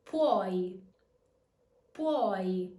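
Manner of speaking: "Puoi" as one syllable, pwoy; careful teacher demo of "puoi" as "pwoi". Shown as a demonstration. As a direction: glide the u of "puoi" like a W, firmly. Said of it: "pronounce the E as a Y and the U as a W".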